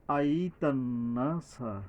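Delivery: আই তান্নাসা with the আ held long; slow আই তান্নাসা; long a after r. Shown as a demonstration. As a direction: stretch the vowel after র. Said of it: "র এর পরে আলিফ আছে".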